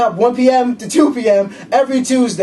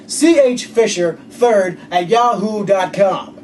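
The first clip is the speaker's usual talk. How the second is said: slow, low announcer read; 3 semitones lower, slower than usual. Shown as a demonstration. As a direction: spell it out like a radio announcer. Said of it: "do it quickly in my announcer voice".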